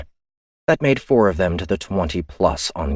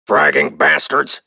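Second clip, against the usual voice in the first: slow, bitter curse, louder; cursing; 3 semitones lower, 5 dB louder, slower than usual. Acted. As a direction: spit out the curse. Pick cursing his ruined hand.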